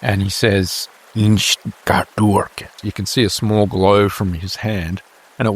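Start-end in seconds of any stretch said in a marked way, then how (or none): 1.1-2.7 slow, deliberate spell words; arcane incantation. Acted. Healer casting on a wounded man, slow incantation. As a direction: intone the spell slowly.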